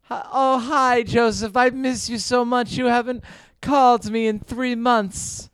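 lightly voiced mom on the phone; mock mother. Comic's mock mom answers her son's call, lightly put-on mother voice. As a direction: play his mother with a vague put-on accent. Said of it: "how do you think my parents would react".

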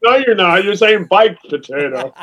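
baked potato said as paik potato, Aussie style; mimicking Australian accent. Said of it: "you have to learn how to say baked potato".

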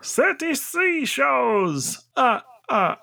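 slow, high Count voice. Acted. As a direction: draw it out like the Count. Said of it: "how would the Count say thirty?".

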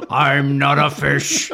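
slow, loud laughing chant; laughing mantra. Pretend.

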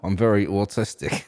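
"autistic" for artistic, first syllable like "aw"; played-up accent joke. Shown as a demonstration. Co-host joking about own accent, artistic sounding like autistic. Co-host plays up teased pronunciation.

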